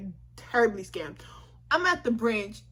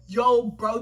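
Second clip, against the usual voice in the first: loud mock-panicked outburst; retold inner panic; 8 dB louder than usual. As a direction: blurt it out as if alarmed. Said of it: "I'm panicking in my head".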